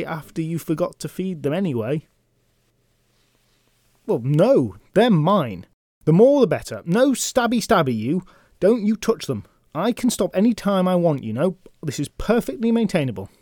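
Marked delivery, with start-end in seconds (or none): 4.1-13.3 put-on high, loud, childish protesting knight; higher, louder sulky knight defending his collection; petulant knight. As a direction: whine like a spoiled hoarder caught out.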